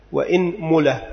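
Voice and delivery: إنملة with kasra on the hamza and damma on the mim, inmula; vowel demo. Shown as a demonstration. Teacher listing the variant for students, careful inmula. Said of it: "ثانيا كسر الهمزة".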